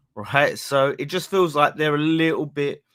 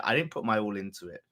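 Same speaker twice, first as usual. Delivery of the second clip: quiet; 3 semitones lower, 5 dB quieter, faster than usual. Real, not acted. Repeats the line louder, then quieter.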